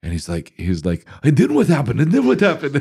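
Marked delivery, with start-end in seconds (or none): 1.2-2.8 imitating a German accent, much higher and louder; eager German-accented questions, pitched way up; a singer's German accent. Director leaning in, hooked on my pitch, excited German accent. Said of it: "that kinda German accent".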